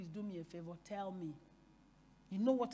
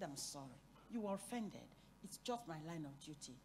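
soft, lowered voice, mildly apologetic; retold apology; 4 semitones lower, 10 dB quieter than usual. Retelling an apology to the offended woman, soft and subdued. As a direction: apologize quietly, without any push. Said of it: "began to apologize profusely to her".

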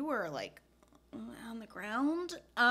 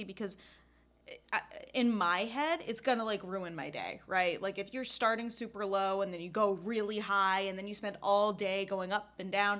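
ordinary delivery

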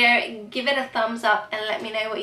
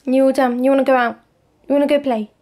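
loud, raised talk to the dog; excited dog talk; 4 semitones higher, 11 dB louder, faster than usual. Real, not acted. Asking the dog if it wants to play, excited.

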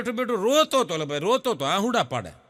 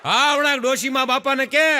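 put-on old woman voice; 6 semitones higher, 4 dB louder than usual. Grandma orders grandpa.

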